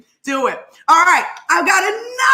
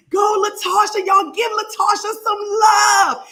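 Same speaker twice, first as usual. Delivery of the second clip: hype; 7 semitones higher than usual. Real, not acted. Hyping the chat.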